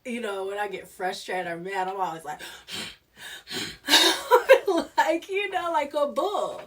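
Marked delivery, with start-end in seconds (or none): 3.2-4.9 high loud burst of laughter. Real, not acted. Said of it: "I cracked up for a long time". 5.0-6.6 words spilled through high laughter; laughing. Real, not acted. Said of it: "so hilarious to me".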